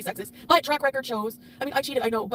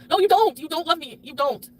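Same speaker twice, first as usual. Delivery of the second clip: sharp, louder denial that falls hard; angry retort; 5 dB louder than usual. Real, not acted. Hurt wife throwing his vow back at him, angrily. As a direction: snap back at the remembered lie. Answering husband's retold vow.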